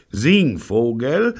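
high, drawn-out shocked question; gasping disbelief. A narrator's reading. Gangster stunned at being called a name, gasping. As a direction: echo the insult aghast, rising. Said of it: "japste er".

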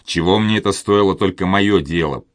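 ordinary delivery

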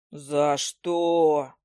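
low, indignant cry; mock owl yell. A narrator's reading. Owl yelling while losing its feathers. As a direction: cry out at the injustice. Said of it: "заорал сова".

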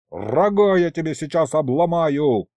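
yelling. A narrator's reading. Boss threatening the stalling demon, yelling. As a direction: blow up and threaten him. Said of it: "заорал я".

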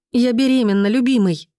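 high, teary announcement; tearful wife breaking the news; sniffling joy. A narrator's reading. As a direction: sniffle through happy news. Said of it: "шмыгнула носом Аня".

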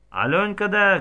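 a man in the crowd shouting out. A narrator's reading. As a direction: yell it across the crowd. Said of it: "крикнув Федір".

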